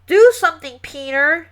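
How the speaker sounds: loud, high demand; girl panicking over a stinking dog, yelling. A narrator's reading. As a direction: yell at Peter to act now. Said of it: "Sheila yelled".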